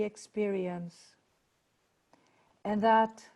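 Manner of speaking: measured prayer in phrases with long pauses; spoken prayer. Acted. Leader asking blessing for the gathering, spoken prayer. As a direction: pray reverently, settling gradually to a close.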